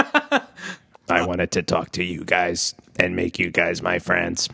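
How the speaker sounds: flat stiff robot voice; toy robot voice. Pretend. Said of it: "Eamon Bot".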